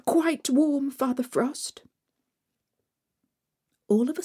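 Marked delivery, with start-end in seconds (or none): 0.1-1.8 higher, bright brave answer; lightly voiced girl. Marusha answers Father Frost, higher and brave. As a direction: put on a brave face despite the cold.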